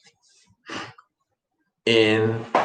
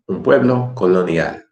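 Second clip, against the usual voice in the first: reading voice. Shown as a demonstration. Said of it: "First time reading voice".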